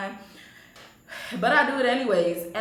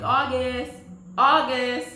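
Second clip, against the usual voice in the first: louder, higher call of a name; 4 semitones higher, 5 dB louder, much slower than usual. Retold or imitated. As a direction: call his name through the house. Calling out for someone in the house.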